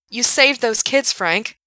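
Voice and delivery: high excited yell. A narrator's reading. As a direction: shout it up the shaft. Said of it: "Gerard yelled".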